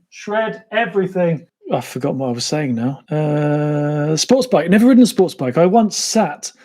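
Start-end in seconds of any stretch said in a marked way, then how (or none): 0.1-1.5 slower, lightly dramatic; a hint of conspirator; mock ominous repeat. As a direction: say it again with mock gravity.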